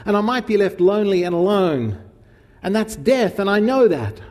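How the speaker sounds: mock clingy partner pleading; anxious demanding plea. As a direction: beg like someone terrified of being left. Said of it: "Anxious, demanding".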